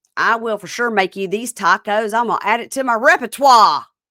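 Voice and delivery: loud, strange, put-on Southern accent. Retelling what a man on a show said: imitating an odd southern accent. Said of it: "in this very odd Southern accent".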